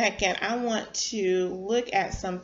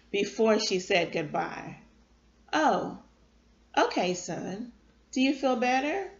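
gentle read-aloud storytelling; story narration. A narrator's reading. Live storyteller reading a chapter to her listeners, gentle narration.

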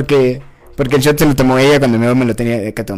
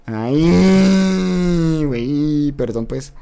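tag; much slower than usual. Real, not acted. Reacting to chat's no grites.

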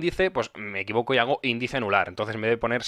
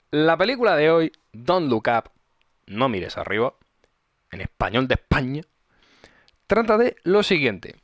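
synopsis reading. Acted. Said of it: "ahora me dejas hacer mi sinopsis".

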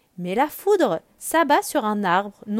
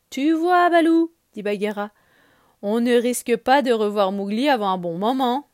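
Bagheera the panther; 2 semitones higher, 7 dB louder than usual. Acted. Bagheera telling Balou Mowgli won't return, knowing. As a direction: tease the bear fondly.

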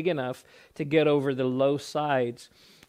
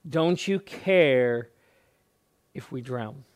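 slow desperate plea; drawn-out mild cry for help; understated pleading question; pleading disciples. Retold or imitated. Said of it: "That was the response of the disciples".

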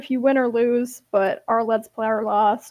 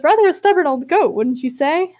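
voicing Hate; 4 semitones higher, 4 dB louder than usual. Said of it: "And he says".

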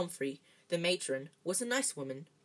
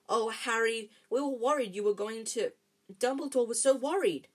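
higher, emphatic outpouring of worry; worried gushing; 5 semitones higher, 4 dB louder than usual. A narrator's reading. Hermione relieved to see Harry, worried and excited. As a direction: fuss over a friend in high agitation.

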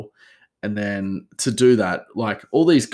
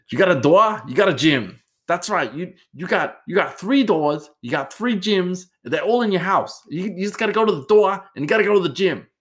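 hyped-up high, loud infomercial pitch, racing by the end; mock pumped-up gym ad voice, much higher and louder; Randy Couture ad voice; 10 semitones higher, 5 dB louder than usual. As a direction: sell a home gym like an over-the-top fighter in an ad. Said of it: "And that's not how Randy Couture speaks at all".

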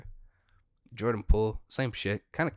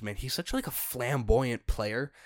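ordinary talk

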